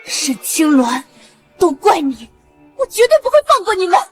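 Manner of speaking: tearful vow building to shout; angry crying. Acted. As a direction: spit the threat through tears. Daughter vowing revenge.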